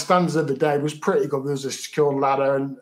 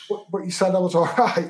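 half-laughing, incredulous protest; laughing disbelief; 3 semitones higher than usual. Retold or imitated. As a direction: laugh through the words in mock disbelief. Retold disbelief at the doctor.

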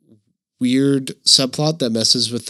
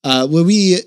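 halting mock-French intro; lightly French-accented host; 4 semitones higher than usual. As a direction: keep up a put-on French accent. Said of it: "There's your French".

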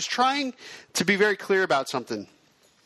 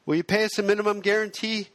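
slightly higher, lightly acted questioning filmmaker; new filmmaker; 4 semitones higher than usual. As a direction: play a newcomer asking, amateurishly. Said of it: "I'll also play the new filmmaker".

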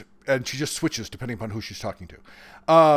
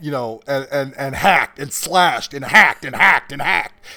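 louder, slower hammered list of blows; breathless fight narration; 7 dB louder than usual. Shown as a demonstration. Author demonstrating his breathless fight scene for the hosts, frantic. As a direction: build from an even list to loud, frantic pounding. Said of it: "this breathless sentence with no punctuation".

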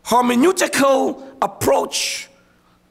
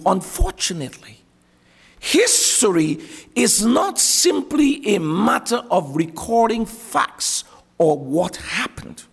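slow, deliberate, every word spelled out; over enunciating; 3 semitones lower than usual. Shown as a demonstration. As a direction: lean on each word slowly. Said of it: "Let me say it slowly".

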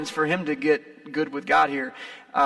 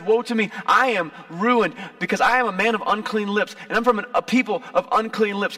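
mild cry of woe; 3 semitones higher, 4 dB louder than usual. Retold or imitated.

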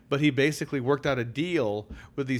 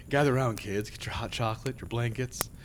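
hushed creepy legend telling; 2 semitones lower than usual. Acted. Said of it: "I gotta set the stage".

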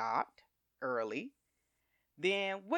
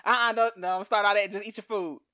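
mock stern husband; 5 semitones higher, 8 dB louder than usual. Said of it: "He says".

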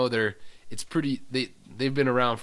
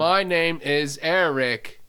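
slow, higher put-on voice; Eric; 4 semitones higher, 4 dB louder, slower than usual. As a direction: announce yourself slowly, pitched up. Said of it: "my other voice, Eric".

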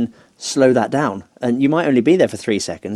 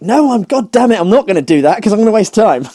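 frustrated outburst; 11 semitones higher, 9 dB louder than usual. Retold or imitated. Retold frustrated inner voice.

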